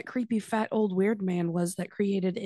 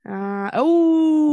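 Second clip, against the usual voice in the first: mock alarm; 7 semitones higher, 9 dB louder than usual. Sudden mock alarm, loud drawn out.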